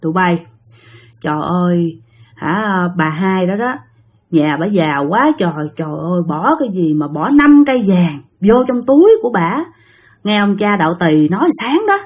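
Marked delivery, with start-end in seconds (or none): 0.0-9.5 put-on low, halting drunken rambling; hint of a tipsy man marvelling; loose, understated drunk talk; lightly acted drunk. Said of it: "ông Sáu Xị cũng xỉn rồi".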